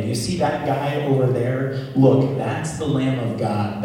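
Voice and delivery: lightly voiced preacher pointing out the Lamb; preaching prophet. John the Baptist announcing Jesus to the crowd, lightly proclaimed. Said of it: "the one who says".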